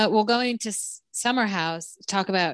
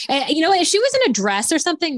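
higher and louder, worked-up point; excited; 10 semitones higher, 6 dB louder than usual. Real, not acted. To co-host about jeans and tank, excited rise. Animated rant about outfit.

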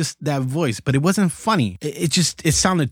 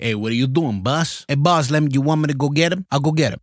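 a light eager henchman voice; lightly voiced nineties cartoon henchman asking the boss; cartoon lackey; faster than usual. Shown as a demonstration. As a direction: offer to go get him for the boss. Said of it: "you always hear those lackeys, they always talk like that".

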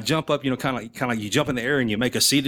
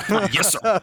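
snappy yes sir; 8 semitones higher than usual. Retold or imitated. Obeying Powell.

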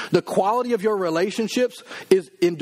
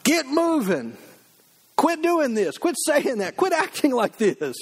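kick in the rear; 9 semitones higher, slower than usual. Pretend. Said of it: "kick us in the rear and say".

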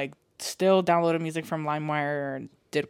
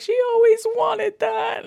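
mom voice; 3 dB louder than usual. Retold or imitated. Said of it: "she's like".

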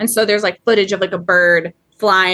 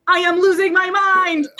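high, comic mock outburst, close to laughing; awkward attempt at cursing; 9 semitones higher than usual. Co-host imitating the priest trying to curse, high mock outburst. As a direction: imitate a priest failing to swear. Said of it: "he's, like, trying to curse".

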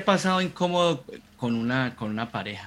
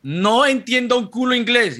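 louder, higher mock exasperation; brain-mode exclamation; 9 semitones higher, 6 dB louder than usual. Mock exasperation, telling a friend his brain won't get English. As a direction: burst out like your brain gave up. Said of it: "mi cerebro está en el modo".

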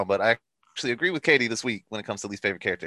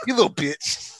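laughing while saying it; laughing insult; 7 semitones higher than usual. Real, not acted. Podcaster laughing at Tetsuo, laughing. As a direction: sneer through a laugh.

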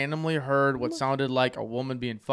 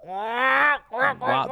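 surprised wow; 10 semitones higher than usual. Real, not acted. Reacting to duck call.

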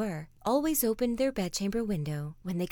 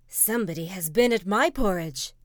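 middle-sized bear voice, firmly raised; louder, medium-sized bear voice; 7 dB louder than usual. A narrator's reading. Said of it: "in his middle-sized voice".

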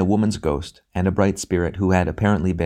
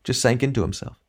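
a lightly voiced bitter wife, complaining and self-righteous; nagging ghost wife; 5 semitones higher than usual. A dead wife grumbling to Hilda about her husband Robert, lightly voiced and self-righteous. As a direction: let the grievance pile up, pleading by the end.

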